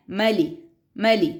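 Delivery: ملی with a short first vowel, not مالی; ملی with the vowel clipped short. Shown as a demonstration. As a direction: say ملی quickly, no long a. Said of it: "اب مالی نہیں ہے".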